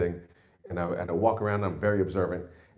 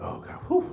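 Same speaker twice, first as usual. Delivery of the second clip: tired groan; 7 semitones higher than usual. Retold or imitated. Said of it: "I'm like".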